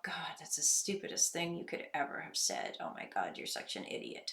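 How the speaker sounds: harsh inner critic. Retold or imitated. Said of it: "I'm immediately saying to myself".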